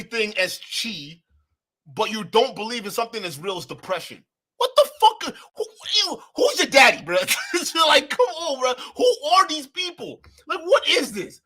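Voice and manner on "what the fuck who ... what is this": high and loud, cracking with laughter; howling incredulous laugh; laughing disbelief. Real, not acted. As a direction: yell through laughter at the absurdity. Streamer erupts laughing in disbelief.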